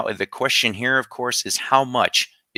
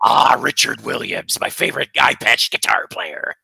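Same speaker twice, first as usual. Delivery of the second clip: hammed-up pirate voice; 4 semitones higher, 4 dB louder than usual. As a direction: savor it like a storybook pirate. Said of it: "You sound like the pirate from SpongeBob".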